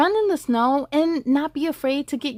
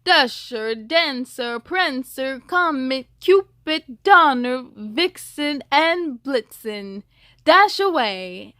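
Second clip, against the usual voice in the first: calling out each reindeer by name, louder; 5 dB louder, slower than usual. Acted. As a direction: Santa calling the team, slowing at the end. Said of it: "Santa called their names".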